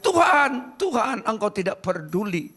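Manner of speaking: a moderate acted shout of appeal; crying out. Disciples in the boat crying to the Lord, crying out. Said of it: "Nanti mereka berteriak".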